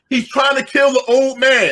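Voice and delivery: high, slow alarmed mock yell; people yelling. Bystanders yelling as the cab hits him, high alarmed call. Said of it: "The people start yelling".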